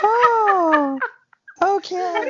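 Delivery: laughing out loud. Real, not acted. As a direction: burst out laughing. Burst of laughter.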